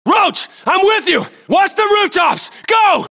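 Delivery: forceful battlefield command; shouted orders. Acted. Soldier backing Roach, sending him on, shouted orders. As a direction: call out orders to a squadmate under fire.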